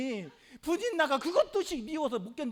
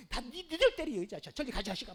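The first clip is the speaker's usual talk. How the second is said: mock scolding. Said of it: "자식들 때려 쌓고".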